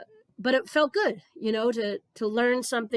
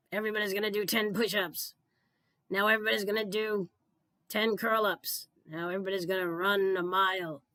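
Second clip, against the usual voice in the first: militant gym teacher voice. Acted. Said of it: "I don't know why I'm using this voice".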